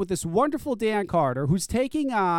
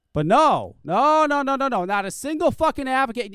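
angry no. Real, not acted. Ranting at silent advocates.

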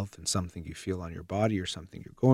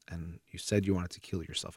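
put-on hushed, careful whisper to a child; soft whisper; 6 dB quieter than usual. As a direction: whisper it gently, almost breathless. Parent gently raising a child's threat.

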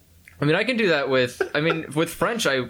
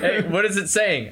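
pushy asker; 8 semitones higher, slower than usual. Retold or imitated. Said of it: "meanwhile, on the opposite of it".

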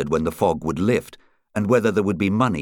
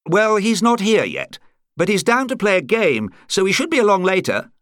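higher-pitched club captain voice; club captain answering; 12 semitones higher, 4 dB louder than usual. A narrator's reading. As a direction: answer across the room, pitched up.

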